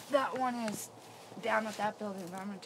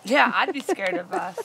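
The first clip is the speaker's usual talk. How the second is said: drawn-out loud call; loud slow callout; 15 dB louder, slower than usual. Real, not acted. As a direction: call it slowly and loudly into the building. Calling out to the ghosts.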